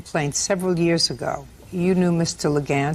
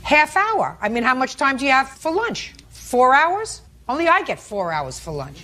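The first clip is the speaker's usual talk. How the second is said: sarcastic scolding tv judge; 5 semitones higher than usual. Real, not acted. Judge mocks long lunch excuse.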